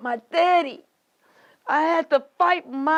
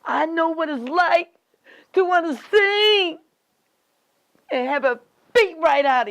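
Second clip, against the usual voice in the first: impassioned anguish; 4 semitones higher than usual. Acted. Woman recalling being silenced, rising anguish. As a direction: pitch climbing on the longing.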